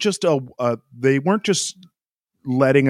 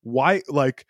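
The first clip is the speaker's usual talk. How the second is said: higher, pressed, complaining radio rant; frustrated Charles rant; 5 semitones higher than usual. Retold or imitated. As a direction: imitate an angry driver demanding to know why. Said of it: "that was the tone".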